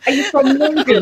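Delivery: hammed-up curious American accent. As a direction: imitate an American asking in a put-on accent. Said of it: "That's how they talk".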